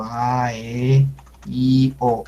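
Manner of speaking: A, E, I, O each drawn out; lengthened vowels. Shown as a demonstration. Teacher explaining long vowels, each sound lengthened. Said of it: "el sonido alargado".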